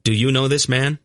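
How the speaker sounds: high, sharp demand; sudden high-pitched challenge; sharp question. A narrator's reading. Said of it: "Geryon asked sharply".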